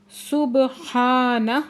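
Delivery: سبحانہ very slow, the ب bounced with qalqala and the ہا stretched two beats; slow tajweed demo of سبحانہ. Shown as a demonstration. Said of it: "با ساکن پہ کلکلا ہو رہا ہے".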